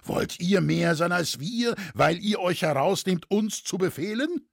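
high, indignant questioning; called-out challenge. A narrator's reading. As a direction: challenge his right to command. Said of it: "rief nun der Schmied".

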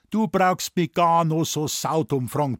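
poltern. Acted. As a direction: snap at the stupid question. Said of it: "polterte Doktor Thoma". (der Arzt poltert ins Telefon, lauter)

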